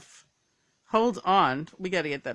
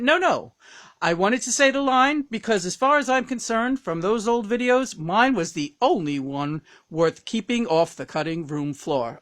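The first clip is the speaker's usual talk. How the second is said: higher, louder insistent guest, easing down at the end; Tony Randall; 5 semitones higher, 8 dB louder than usual. Acted. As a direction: interject with theatrical insistence, then settle. Tony Randall insists on his line.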